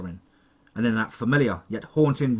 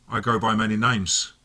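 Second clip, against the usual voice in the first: sly villain. A narrator's reading.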